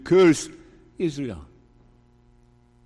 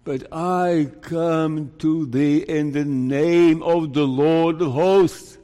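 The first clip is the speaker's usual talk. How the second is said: mock biblical prophet; slower than usual. David's declaration, slow and emphatic.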